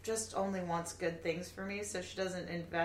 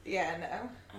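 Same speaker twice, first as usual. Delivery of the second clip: whispering. Real, not acted. Whispered aside.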